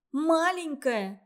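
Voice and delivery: mock the word he used; mocking echo. A narrator's reading. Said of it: "насмешливо повторила Катя".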